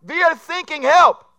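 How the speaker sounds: put-on high, loud German accent, sinking for thinking; German sinking crew. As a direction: yell it like a panicked German sailor. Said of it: "an S O S message comes over".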